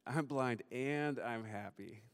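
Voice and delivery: slow, measured answer in a natural pitch; patient dad. Retold or imitated. Dad confirming to his little daughter, slow and deliberate. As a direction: spell it out slowly for a small child. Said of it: "And I said".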